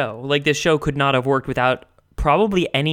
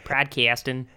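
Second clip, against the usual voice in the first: put-on Jersey accent. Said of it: "Jersey guy".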